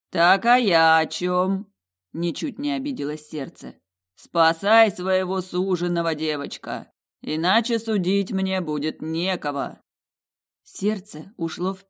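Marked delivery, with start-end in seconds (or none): 0.1-9.8 slow, loud voice of an ancient jewel; slow booming heart. Acted. The Heart of the Fjords answering the heroine, slow loud booming voice. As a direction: speak slowly like a vast living gem.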